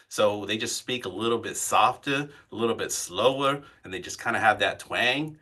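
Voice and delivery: Southern twang. Shown as a demonstration. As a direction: ease into a mild Southern cadence. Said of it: "from the South that had this little bit of a twang".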